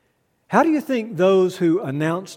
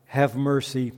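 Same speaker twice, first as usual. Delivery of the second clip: measured, reverent litany with falling line ends; solemn prayer; 3 semitones lower than usual. Acted. Litany prayer before the sermon.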